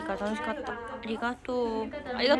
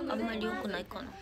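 a quiet murmured second thought; softer musing; 6 dB quieter than usual. Shown as a demonstration. Idol doubting soda again, softly to herself. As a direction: repeat it much softer, to yourself. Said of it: "でも炭酸あんまり良くないかな。".

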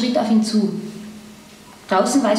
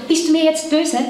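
anxious question, pitched higher; hasty; 6 semitones higher than usual. A narrator's reading. Woman stops the man as he leaves, hasty. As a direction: blurt it out, a touch urgent. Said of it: "als sie ihn hastig fragte".

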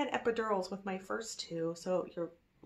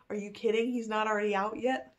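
incredulous inner voice; 3 semitones higher, 5 dB louder than usual. Retold or imitated. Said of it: "part of me is like".

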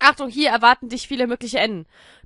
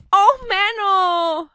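mock whine; 9 semitones higher, 6 dB louder, much slower than usual. Guinea pig ran away.

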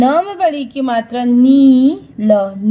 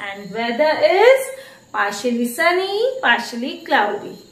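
slow dictation; 3 dB quieter, much slower than usual. Shown as a demonstration. Teacher dictating weather slowly.

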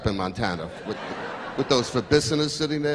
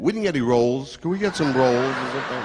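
complaining Jewish diner. Retold or imitated. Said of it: "Jewish table".

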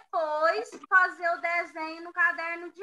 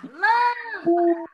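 Lâmpada stretched, LÂM loudest; slow loud call of Lâmpada; called out slowly; 4 dB louder, slower than usual. Shown as a demonstration. Teacher calls the word for the class, slow and loud. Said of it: "É só chamar".

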